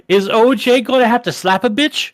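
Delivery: a hint of a swaggering cop; lightly voiced tough cop threat. O J in court doing the cop thing, mild menace. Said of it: "having that fucking tone of voice".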